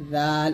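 "জাল" with tongue tip on the edge of the upper teeth, vowel held; tongue-tip soft DH. Shown as a demonstration. Teacher showing Arabic dhal, drawn-out interdental "জাল". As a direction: say "জাল" with a voiced th. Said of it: "জিহ্বার আগা সামনের উপরে".

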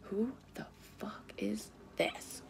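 slow unvoiced whisper; real whisper. Real, not acted. Reader wondering who the karmic person is, whispered. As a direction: breathe it out under your breath, suspicious.

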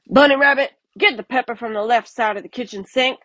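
loud, high, fast growled order. Acted. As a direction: bark the order at the rabbit. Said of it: "the varmint growled".

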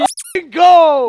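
screaming with hype, way up high; hyped shouting. Real, not acted. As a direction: celebrate at the top of your lungs. Celebrating a big punch.

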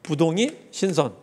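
slow mnemonic. Shown as a demonstration. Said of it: "이 두 문자만 좀 기억해 두세요".

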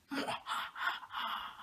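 soft, breathy mock-sinister laugh; mock evil laugh. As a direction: play a quiet villain's laugh after a spooky name. Mock horror name, then laugh.

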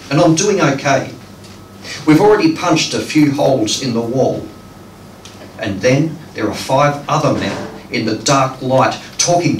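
measured phrases with pauses between; deliberate storytelling poetry delivery; poem reading. Acted. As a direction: read a dream poem aloud to an audience. Reads the title poem aloud.

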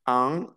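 "An" as one nasal French vowel; teacher demonstrating a nasal "An". Shown as a demonstration. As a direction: say "An" through the nose.

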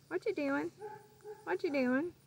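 high sing-song bird voice; imitating the macaw. Owner imitating her macaw calling out, high sing-song. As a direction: parrot it back like the bird. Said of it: "she started saying".

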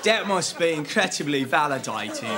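put-on Australian accent. Actor improvising in a take, attempted Australian accent. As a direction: say it as a would-be Australian. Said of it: "I wanted to do an Australian accent".

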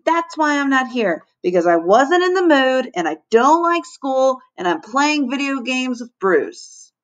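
high, slowing, piling up excuses; eager cry. A narrator's reading. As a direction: list the excuses with rising glee. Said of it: "cried Lenny".

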